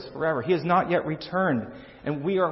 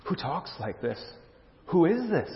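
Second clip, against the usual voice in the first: hushed astonishment; 2 semitones higher, 4 dB quieter than usual. Acted. Preacher voicing onlookers' reaction to Jesus, quietly astonished. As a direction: marvel quietly, pitch rising on the second question.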